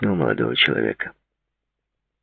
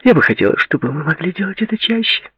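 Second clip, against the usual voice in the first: exclaimed. A narrator's reading. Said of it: "воскликнула она".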